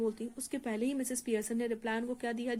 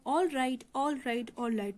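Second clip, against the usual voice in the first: mildly menacing all right; intimidating; much slower than usual. Acted. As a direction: back her off with a warning.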